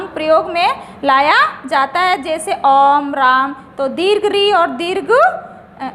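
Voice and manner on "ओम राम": ओम and राम held long on a low note; prolonged pluta vowel. Shown as a demonstration. Teacher giving examples of the pluta sign, prolonged pluta vowel. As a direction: stretch the vowels of ओम and राम evenly. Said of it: "ये ओ की ध्वनि देता है".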